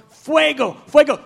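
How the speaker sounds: imitated crowd shout. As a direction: call it out like the praying crowd. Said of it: "they go from going".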